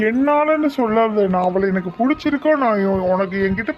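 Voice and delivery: indignant retort; defensive snap. Acted. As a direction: throw the blame back at her. Accused, he snaps back.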